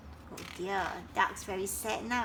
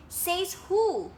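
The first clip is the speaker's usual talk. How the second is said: defiant; 8 semitones higher, 4 dB louder than usual. Acted. Frogs defying Duck.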